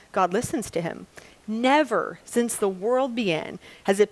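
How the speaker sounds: measured Bible reading to a congregation; scripture reading. A narrator's reading. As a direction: read the passage aloud with acted questions. Reads scripture aloud.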